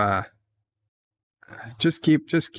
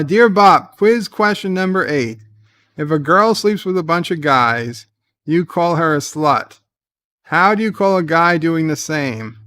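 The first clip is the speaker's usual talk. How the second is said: loud letter reading; 4 semitones higher, 5 dB louder than usual. Acted. Reading a listener letter aloud.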